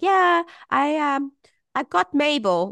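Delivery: high, put-on voice for mum owning up; mock sheepish mum. Mum's sheepish reply imitated.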